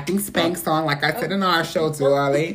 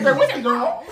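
high campy voice; 9 semitones higher, 5 dB louder than usual. Retold or imitated. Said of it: "I'm like".

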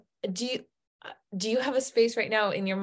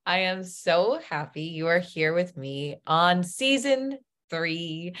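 usual speaking voice

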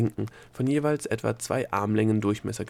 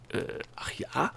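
soft, higher whispered question; 5 semitones higher, 7 dB quieter than usual. A narrator's reading. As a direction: whisper back uncertainly. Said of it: "wisperte der Gnom zurück".

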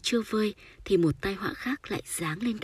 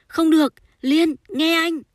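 very high, loud, urgent protest; insistent cry, pitch leaping up; urgent plea; 11 semitones higher, 10 dB louder than usual. A narrator's reading. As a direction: shout to stop someone in a panic. Lover urgently stops the distressed woman.

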